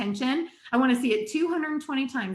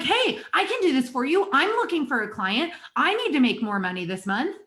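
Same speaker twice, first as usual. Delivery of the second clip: eager pitch; 3 semitones higher than usual. Retold or imitated. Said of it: "And they're like".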